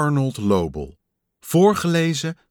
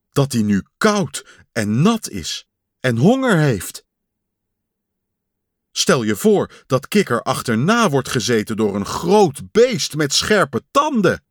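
a louder, worked-up Pat; anxious Pat; 4 dB louder than usual. Acted. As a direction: spin yourself into a panic. Pat imagining danger. (opgewonden bange Pat)

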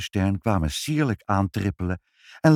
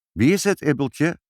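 calling out; 6 semitones higher, 3 dB louder than usual. A narrator's reading. Mother calls down, asking.

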